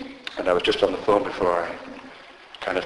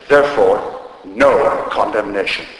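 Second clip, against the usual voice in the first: firm stress on "Therefore", then a slow "no condemnation"; blunt, weighty statement of "no condemnation"; powerful; slower than usual. Retold or imitated. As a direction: set "Therefore" apart and land squarely on "no". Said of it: "That's how powerful it is".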